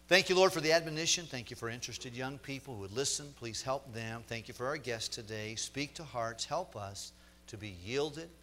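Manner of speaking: earnest prayer, opening with a loud, fast burst; closing prayer. Acted. Pastor praying over the congregation to close, earnest prayer voice. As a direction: pray it over the young people, earnestly.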